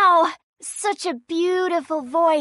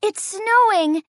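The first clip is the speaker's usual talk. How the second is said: excited; 2 semitones higher than usual. Acted. Ant delighted by snow.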